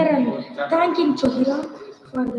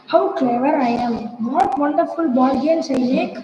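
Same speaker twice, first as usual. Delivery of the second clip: smug gloating. Acted. Rat gloats to himself.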